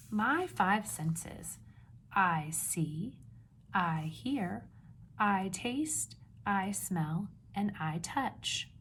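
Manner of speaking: slow, lightly sing-song book reading; reading to children. Acted. Teacher reading the book aloud to her class, slow and clear. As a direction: read the title page clearly to little listeners.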